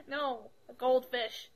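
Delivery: "goldfish" said slowly and distinctly; careful correction. Real, not acted. Correcting co-hosts who heard bullfish, slow careful "goldfish". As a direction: spell out "goldfish" slowly by ear.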